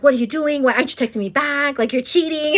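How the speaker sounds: mock jealous boyfriend demanding answers. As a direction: imitate him hounding her. Boyfriend's jealous texts, voiced.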